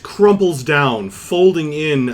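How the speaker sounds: slow, dramatic description; measured fantasy storyteller; game master narration. Acted. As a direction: narrate the creature's collapse, drawn out.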